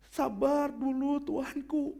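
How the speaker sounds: slow, soft pleading. Shown as a demonstration. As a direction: beg the king quietly. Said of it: "Pasti memelas deh". (memelas pelan)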